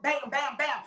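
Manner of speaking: preacher stretching out a loud, slow climax; preached emphasis. Acted. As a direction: hammer each word wide open.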